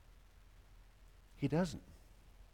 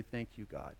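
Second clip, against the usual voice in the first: much softer, low grateful murmur; humble thanks; 5 semitones lower, 12 dB quieter than usual. Acted. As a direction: thank God meekly. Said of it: "And I say".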